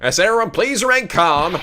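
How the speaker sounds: flight attendant voice. Acted. Attendant calming passengers.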